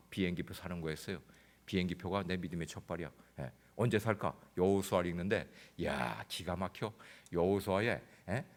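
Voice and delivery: normal talking voice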